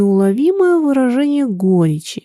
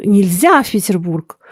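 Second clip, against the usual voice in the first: heated cry. Acted. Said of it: "горячо вскричал".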